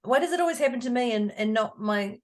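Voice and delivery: high, whining why-me voice; whiny complaint. Retold or imitated. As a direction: complain like a victim. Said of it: "I'm always late".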